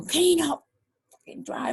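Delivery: a lighter retelling of her jab; mock angry quote. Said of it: "saying, you know".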